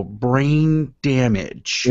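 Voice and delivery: drawn-out comedian impression, very slow; Bill Cosby. Host quoting a comedian's bit to tease co-host, slow comic impression. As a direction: stretch it out like the comedian's catchphrase. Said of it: "what Bill Cosby would call".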